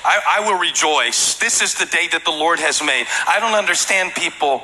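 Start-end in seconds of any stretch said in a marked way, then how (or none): 0.0-3.0 hammed-up preachy lecture, slow and higher; mock sanctimonious scripture-quoting. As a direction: lecture a friend with Bible verses. Mocking preachy believer quoting scripture.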